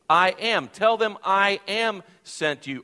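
a preacher voicing God's words; solemn declaration. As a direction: announce it with weight, slowing on the second line.

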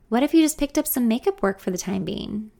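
innocently. Acted. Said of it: "she asks innocently".

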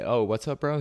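casual, nice, no edge; friendly and easygoing. Retold or imitated. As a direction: disarm him with friendliness. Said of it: "You're kinda nice about it".

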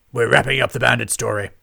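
booming lord declares; loud announcement. A narrator's reading. Lord Lloyd announces to his scribes, loud and booming. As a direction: announce it to the room.

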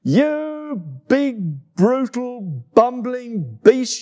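high, angry monkey shout. Acted. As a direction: yell the insults up high. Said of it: "she shouted".

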